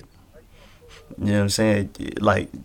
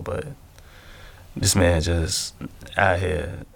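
somber; 4 semitones lower than usual. Real, not acted. Somber talk about an actor's death.

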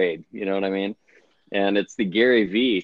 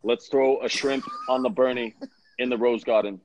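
lightly voiced senator attempting an Australian accent; a hint of stump speech, mock Australian; Bernie Sanders impression; 2 semitones higher than usual. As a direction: sign off like a politician trying on Australian. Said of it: "impression of Bernie Sanders doing an Australian accent".

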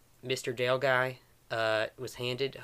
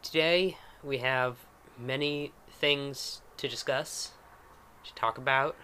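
southern mayor voice; 3 semitones higher, 4 dB louder than usual. Acted. Mayor speaking in character.

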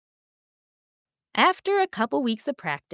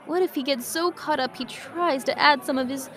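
lightly voiced worried horse; 5 semitones higher than usual. Priscilla worried voice.

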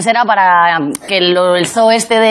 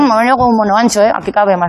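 talking with mouth full; faster than usual. Real, not acted. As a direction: speak through a mouthful. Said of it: "con la boca llena".

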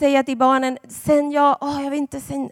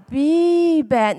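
scary dramatic; 4 semitones higher than usual. Shown as a demonstration. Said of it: "jag kanske skrämde dem också lite".

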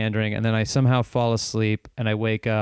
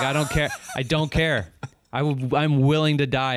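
mildly heated retelling, pitched higher; retold anger; 4 semitones higher than usual. Telling the other comic he'd fight him, mock-furious. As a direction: replay your fury without fully shouting. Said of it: "I'm that mad".

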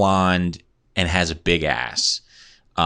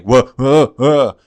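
higher, louder, stretched whoa; like they just discovered fire; hammed-up awe; 5 semitones higher, 6 dB louder, slower than usual. Stoned friends marvel at dog theory, big mock awe. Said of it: "like they just discovered fire".

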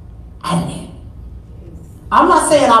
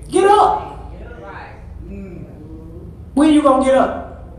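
exhorting; 3 dB quieter than usual. Acted. Exhorting the listeners.

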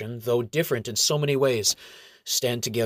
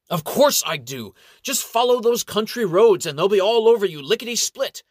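a higher, louder mocking little gnome; sarcastic gnome; 10 semitones higher, 7 dB louder than usual. A narrator's reading. Gnome monk mocking the ranger's directions, higher and sarcastic. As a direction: scoff like a cocky little monk. Umbert voice again.

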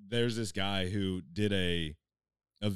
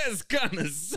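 doubtful hype man; 7 semitones higher than usual. Retold or imitated. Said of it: "Another hype man's like".

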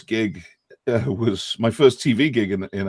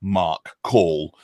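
British accent demo; 2 semitones lower, much slower than usual. Shown as a demonstration. Dialect coach shows British vowels, British accent. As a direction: round British vowels at the back of the mouth. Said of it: "a British accent has an egg".

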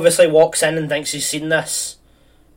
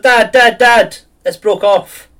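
put-on high upset child voice, slow at the end; a kid wailing to his dad over a broken toy; mock tearful kid; 6 semitones higher, 6 dB louder, slower than usual. Boy in tears calls out to his dad, mock tearful.

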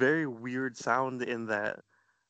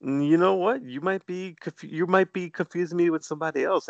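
higher-pitched teasing protest; mock offended; 5 semitones higher than usual. Real, not acted. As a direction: rib the host in a raised pitch. Teasing host over mistaken identity.

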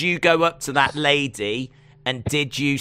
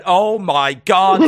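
backstage panic; 5 dB louder, slower than usual. Acted. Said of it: "backstage going".

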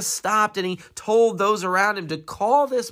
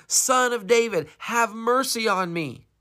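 crying out; 5 semitones higher than usual. Retold or imitated. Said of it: "kept crying out all the more".

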